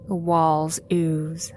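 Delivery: slow, hushed, creepy narration; eerie whisper. A narrator's reading. Narrator setting the grim tunnel scene, slow and hushed. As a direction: breathe it out like a secret horror.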